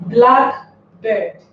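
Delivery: compound-noun stress on the first part, black. Shown as a demonstration. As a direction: punch black, let bird drop. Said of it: "stress the first syllable".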